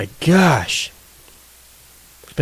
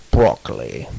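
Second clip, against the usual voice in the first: broccoli said deep, B punched hard; low Russian broccoli, strong B. Shown as a demonstration. Contrasting broccoli with a deep Russian hard B. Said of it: "really hard with your consonants".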